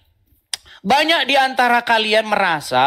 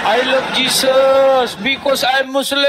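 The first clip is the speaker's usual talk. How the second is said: mock quote; slower than usual. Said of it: "penghinaan yang dilakukan orang Islam".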